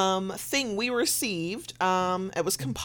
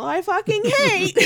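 laughing; 12 semitones higher, 5 dB louder, slower than usual. Real, not acted. Annoyed laugh about handle.

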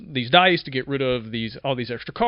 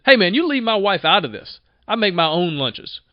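defensive retort; 4 semitones higher, 4 dB louder than usual. Retold or imitated. Coworker snaps back, defensive.

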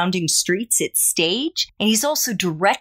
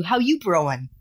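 casual, understated New York greeting; light New York accent; 2 semitones lower than usual. Acted. Host tries a coffee pun on a Brooklyn guest, light New York accent. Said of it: "my New York accent finely tuned".

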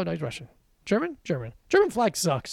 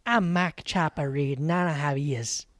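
put-on Australian accent; 5 semitones lower than usual. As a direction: play a rough Aussie criminal, lightly. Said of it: "I don't think he got it yet".

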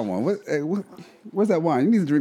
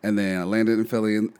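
tired voice; 2 semitones lower than usual. Real, not acted. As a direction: sound drained and tired after a long trip. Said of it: "You sound tired, bruh".

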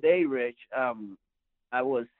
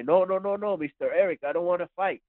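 mildly acted higher-pitched pleading; backing down; 6 semitones higher than usual. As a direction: imitate a kid hurriedly refusing a fight. Retold kids backing out of fight.

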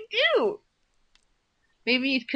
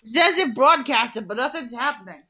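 mocking imitation of a drunk; 4 dB louder than usual. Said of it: "That's gonna be your new catchphrase".

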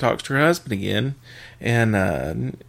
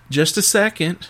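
higher-pitched wife's quick aside; mock stalling; 5 semitones higher than usual. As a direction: lightly imitate the wife putting him on hold. Wife stalls customer in joke.

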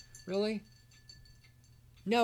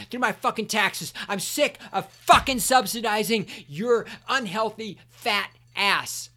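ordinary talk, nothing marked

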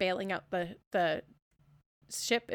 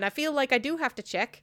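ordinary talk, nothing marked

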